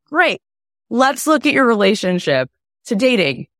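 "Great" jumps high and bright; bright upbeat reply. Acted. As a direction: pop "Great" up high, then push on. Coach answers client, bright.

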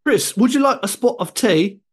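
mock posh British accent, pitched high. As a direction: put on a plummy British accent to offer tea. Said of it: "you're doing an accent".

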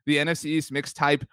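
"tape" turned into Australian-style "type"; mild Australian twang on "mix type"; Australian-sounding vowel. Shown as a demonstration. Host naming the show to co-host, Australian-sounding "type". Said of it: "like an Australian accent when you say that".

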